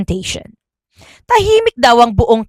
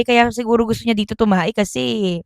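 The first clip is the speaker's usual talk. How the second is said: ordinary delivery, nothing marked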